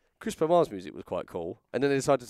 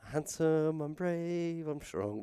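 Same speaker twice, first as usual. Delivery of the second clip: heroic Mountie; 6 semitones higher, much slower than usual. Pretend. Mock Mountie theme boast.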